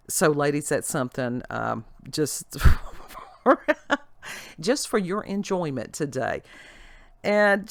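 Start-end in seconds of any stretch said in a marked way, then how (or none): 3.4-4.0 short, high burst of laughter. Real, not acted. Vlogger amused while addressing the ladies, short high laugh. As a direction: let out a quick loud laugh. Laughs amid chat to viewers.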